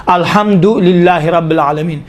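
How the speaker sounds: "الحمدللہ" with a slight stop after du, then lillah; unhurried, words separated. Shown as a demonstration. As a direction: recite "الحمدللہ رب العالمین" gently, parting du from lillah. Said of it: "اس طرح سے".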